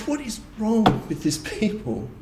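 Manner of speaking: "What is wrong with this people?" thrown up high, mock-indignant; exasperated scoff. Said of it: "and we're like".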